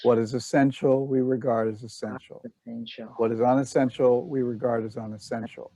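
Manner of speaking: measured, evenly phrased verse recitation; scripture reading. Acted. Leader reads Dhammapada verses with the group, measured recitation. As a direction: read sacred verses line by line.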